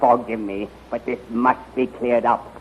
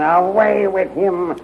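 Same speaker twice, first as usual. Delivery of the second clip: angry command; 7 semitones higher, 5 dB louder, slower than usual. Acted. General orders prisoner removed.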